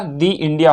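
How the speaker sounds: long ee in दी before India. Shown as a demonstration. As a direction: link दी to India with an ee sound. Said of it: "दी पढ़ेंगे".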